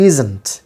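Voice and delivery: "isn't" with a buzzed Z, falling low; careful pronunciation. Shown as a demonstration. Teacher gives the finished pronunciation, careful "isn't" with Z. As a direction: model "isn't" with a Z in the middle. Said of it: "The pronunciation is".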